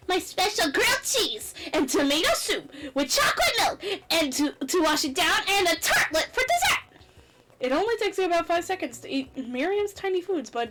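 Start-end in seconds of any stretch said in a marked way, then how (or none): 0.1-7.0 laughing. Real, not acted. Laughing while listing.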